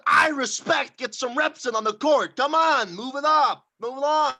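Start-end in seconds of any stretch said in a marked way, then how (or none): 2.4-2.9 high, loud coaching call; coach shout. Acted. Coaching a volleyball drill. 2.9-4.3 loud coaching commands; coach shout. Acted. Coaching a volleyball drill.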